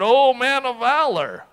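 imitating sarcastic praise. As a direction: hail a supposed hero with sarcasm. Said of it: "being sarcastic, saying".

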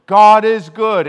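loud, high, slow call to the congregation; loud call-out from the pulpit; pastor's call. Retold or imitated. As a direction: belt it out like a pastor to the room. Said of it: "where the pastor says".

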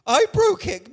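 high, whiny imitation of a guilty believer; mock self-blame. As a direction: mimic the listener moaning about their fault. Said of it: "you're going around feeling".

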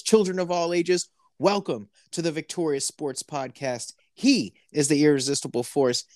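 lightly hammed-up ringmaster welcome. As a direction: announce it like a circus ringmaster.

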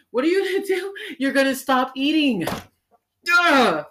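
high, loud mocking shout. Mocking the diet advice with a loud high shout. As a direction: yell it like a know-it-all, high and loud. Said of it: "that quote that I was telling y'all about".

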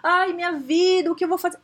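high, slow, drawn-out wail of self-pity; mock the employee who takes feedback personally; self-pitying whine. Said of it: "a gente levar pro lado pessoal, aí fica".

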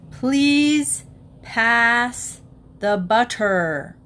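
please pass the butter, loud and stiff; loud, overly distinct request; father at dinner, booming for the butter. A narrator's reading. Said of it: "in a very loud voice".

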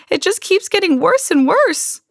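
high-pitched distressed lament; near sobbing. A narrator's reading. Mother despairing over Camilla's state, tearful wail. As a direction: wail it, on the verge of sobs. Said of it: "She began to sob".

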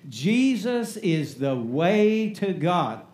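slow, even, every word weighed; call and response. Shown as a demonstration. Preacher leading the church in a slow response line. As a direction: say it slowly, leading the congregation. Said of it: "Say that with me".

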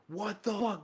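high, stunned what the fuck; shocked disbelief. Retold or imitated. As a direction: blurt it out in shock. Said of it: "being like".

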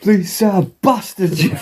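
high-pitched comic impression; British Bulldog. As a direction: pipe it up as a mock wrestler, amused. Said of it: "to make the British Bulldog".

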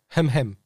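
a prissy little cough-word, hem hem; mock throat clear. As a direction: clear your throat like Umbridge. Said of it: "Wie macht die dann bei dir?". (gekünsteltes Räuspern, hem hem)

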